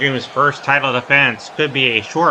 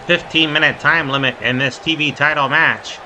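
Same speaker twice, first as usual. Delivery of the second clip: quick, punchy wrestling commentary; live play-by-play. Real, not acted. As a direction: call each move as it happens.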